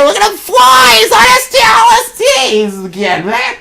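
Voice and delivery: high, shouted heckle; mock exclamation. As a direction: shout it high over the story. Mocking Owl's flight.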